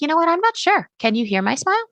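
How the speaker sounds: high, unsure questioning voice; unsure podcaster voice. Pretend. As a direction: play a nervous host asking for help. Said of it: "And they're like".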